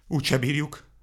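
wailing. A narrator's reading. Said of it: "sápítozott Vacska Mati".

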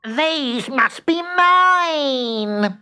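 very high, drawn-out fairy squeal; delighted discovery. A narrator's reading. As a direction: squeal it slowly, stretching the last word. Belinda finds her lost letters.

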